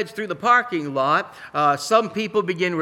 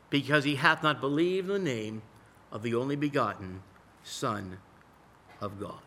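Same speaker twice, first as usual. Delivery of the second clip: scripture reading. Acted. Preacher reading John three to the congregation, solemn reading. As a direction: read the verses with reverence.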